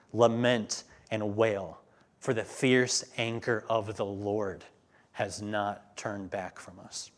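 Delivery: slow, sombre reading of the coming ruin; grave scripture reading. Acted. Preacher reading the lament to his listeners, slow and sombre. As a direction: let the doom sink in slowly.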